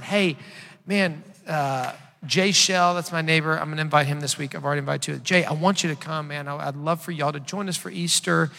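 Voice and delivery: loud, hammed-up pitch to a neighbor; overselling church to the neighbor with a loud grin; mock eager churchgoer. Pastor mimics inviting neighbor, loud hammed-up pitch.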